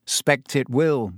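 slow, heavy resignation. Acted. Harry resigned about missing Hogsmeade, slow and heavy. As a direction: drag the words out, weighed down. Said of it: "said Harry heavily".

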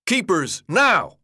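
loud, high, urgent command; forceful order peaking on the last word; shout. A narrator's reading. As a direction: shout the signal to act. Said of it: "Albie shouted".

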